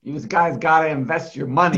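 put-on light Long Island accent, New York swagger. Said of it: "thick Long Island accent".

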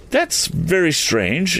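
slow, high-pitched exclamation; exclaiming. A narrator's reading. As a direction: exclaim it high, drawing the words out. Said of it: "exclaimed the lad".

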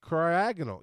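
cryogonal as cry-AG-un-ul; decisive cryogonal with short stressed "ag"; second-syllable stress. Shown as a demonstration. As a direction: punch the AG in cryogonal, falling after it. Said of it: "second syllable is the emphasis".

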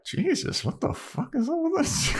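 very high squeaky mock voice; hammed-up shrill disbelief; gawking bystander. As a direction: squeak it out like a cartoon onlooker. Gang gawks at the fire.

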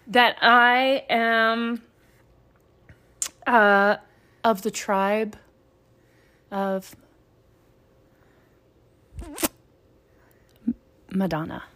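slow mock-ceremonial intoning; solemn blessing voice. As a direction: pronounce it like holy scripture. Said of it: "I'm building the aesthetic".

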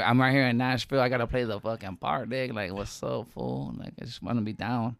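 mock Chicano cholo street accent. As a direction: play the cholo part, hammed up a little. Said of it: "like, cholo voice".

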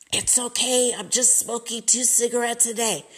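a hint of grandma's jacked-up voice; grandma's smoker voice. Granddaughter quoting grandma, lightly imitated wrecked smoker's voice. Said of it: "that's how she talked from smoking".

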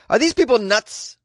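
mock incredulity. Voicing the listener's incredulous thought.

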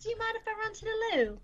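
high-pitched mock British; hammed-up high British voice; put-on British accent. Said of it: "I do accents".

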